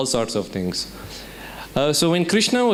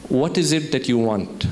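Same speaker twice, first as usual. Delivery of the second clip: calm; 2 semitones lower than usual. Retold or imitated. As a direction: ask it evenly and unruffled. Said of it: "very calmly says".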